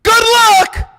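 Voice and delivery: high, loud mocking good luck; sarcastic good luck. Real, not acted. Mocking the fans with a sarcastic good luck. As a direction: toss it off with a sneer.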